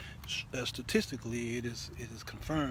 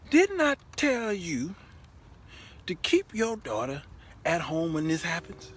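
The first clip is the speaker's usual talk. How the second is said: angry scolding; 4 semitones higher, 4 dB louder than usual. Retold or imitated. Husband scolds the mama over their daughter, louder and heated. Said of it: "And then I got angry".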